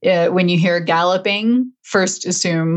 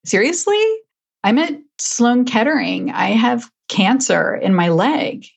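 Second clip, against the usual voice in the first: retold disbelief, Seriously jumping much higher; incredulous; 5 semitones higher than usual. Patient answering the clinic that forgot her, incredulous. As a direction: play back your own stunned reply. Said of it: "And I'm like".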